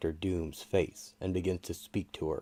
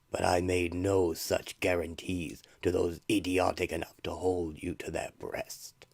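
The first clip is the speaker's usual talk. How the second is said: eldritch voice. Acted. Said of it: "begins to speak to her in an eldritch voice".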